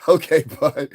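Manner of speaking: high, loud fake sympathy; mock concern. Gloating at a hospitalized doubter, mock-caring. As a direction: play it sweetly concerned, tongue in cheek. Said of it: "And I'll be like".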